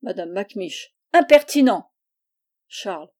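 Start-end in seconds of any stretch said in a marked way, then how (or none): 1.1-1.9 exclamation outrée, haute et forte; indignation. A narrator's reading. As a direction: couper court, avec indignation. Cousine indignée rabroue Charles. (cri indigné)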